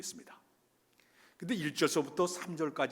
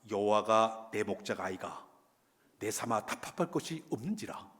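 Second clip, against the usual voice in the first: Gyeongsang dialect; 3 semitones lower than usual. Retold or imitated. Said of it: "경상도 버전이 나왔어요".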